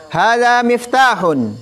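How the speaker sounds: projected classroom model. Shown as a demonstration. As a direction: call it out for the class. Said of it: "teacher models, class repeats".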